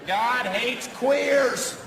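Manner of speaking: slow, high, drawn-out protest chant; hammed-up bigot chanting at a rally; mock redneck protester. Comic mocking a redneck protester, slow chant. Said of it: "me pretending to be a right-wing redneck radical protesting".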